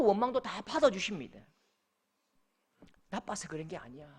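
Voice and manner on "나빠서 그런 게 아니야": low, soft comforting voice; gentle reassurance. Acted. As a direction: comfort someone who is hurting. God reassuring a hurting believer. (낮고 부드럽게 달래는 말투)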